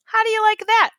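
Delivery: high, loud exasperated cry; exasperated exclaim. Acted. Slim to himself, exasperated and loud. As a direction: throw up your hands in disbelief.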